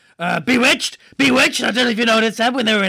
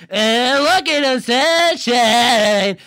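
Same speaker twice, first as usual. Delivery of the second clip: slow, auto-tuned robot drawl; robotic voice; 4 semitones higher, 4 dB louder, much slower than usual. Retold or imitated. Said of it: "weird robotic voice".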